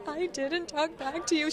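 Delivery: imitating partner. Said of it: "She's like".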